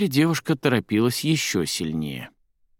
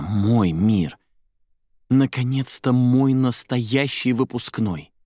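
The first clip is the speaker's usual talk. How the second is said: blissful; 4 semitones higher, slower than usual. A narrator's reading. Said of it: "блаженно повторила она".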